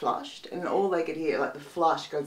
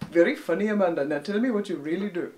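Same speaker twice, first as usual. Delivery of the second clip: put-on Indian accent. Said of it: "he was Indian".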